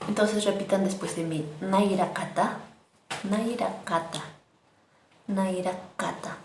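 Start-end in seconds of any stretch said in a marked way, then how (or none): 1.6-6.4 nairakata with loose, relaxed lips. Shown as a demonstration. Teacher having students relax their lips on nairakata. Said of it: "Así como relajando a sus labios".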